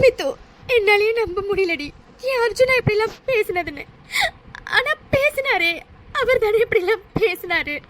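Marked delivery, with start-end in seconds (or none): 4.8-5.7 sobbing out the words; heartbroken, crying it all out; tearful, despairing; weeping. Acted. Heartbroken woman weeps.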